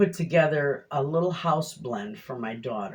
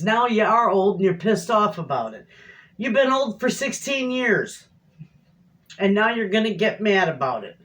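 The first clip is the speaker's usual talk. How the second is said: raised-pitch mock telling-off; retold teasing; 5 semitones higher, 4 dB louder than usual. Wife ribbing husband about being old, mock exasperated teasing. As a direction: scold him in jest, higher and a bit louder. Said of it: "I was teasing my husband".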